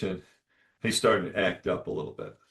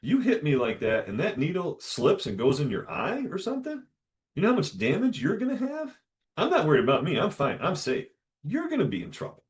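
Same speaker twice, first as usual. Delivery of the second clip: stern warning; 8 semitones higher than usual. Retold or imitated. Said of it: "I said".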